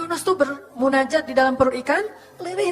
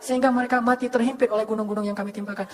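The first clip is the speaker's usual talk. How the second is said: raised, eager voice of the mountain angel awaiting orders; a mountain angel pressing the Prophet to command him; 4 semitones higher than usual. Acted. The mountain angel urges the Prophet, raised and eager.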